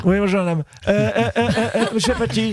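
Marine Le Pen impression. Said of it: "Marine Le Pen, bonjour".

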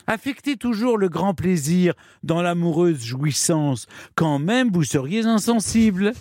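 lightly voiced madam instructing her girls; Madame Gourdan. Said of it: "l'accent que vous prenez pour imiter Madame Gourdan". (léger accent de mère maquerelle qui conseille ses filles)

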